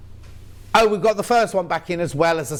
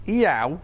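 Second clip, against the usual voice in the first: mock cat meow. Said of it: "supposed to be the noise".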